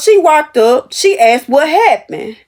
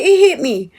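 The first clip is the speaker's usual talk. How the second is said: laughing; 3 semitones higher than usual. Real, not acted. Laughing at his remark.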